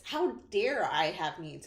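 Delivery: mock your own needs with a touch of sarcasm; slightly sarcastic. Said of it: "I say it in a slightly sarcastic way".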